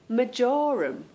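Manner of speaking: majorum said "MAR-jer-um" short; British marjoram. Shown as a demonstration. Showing her English way of saying marjoram. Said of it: "I used to use the herb".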